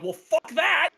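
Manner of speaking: high-pitched mock outrage; indignant. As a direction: blurt it as an exasperated comeback. Acted indignant reply to no alcohol.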